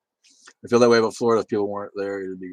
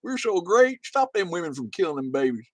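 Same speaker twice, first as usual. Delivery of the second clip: mocking Texans; 9 dB louder, slower than usual. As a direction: ham up a whiny panicked Texan. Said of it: "And they're like".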